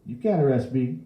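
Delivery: put-on high, loud old man's protest; indignant old bystander; defiant old man. A narrator's reading. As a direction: defy the cop. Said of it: "the old man said".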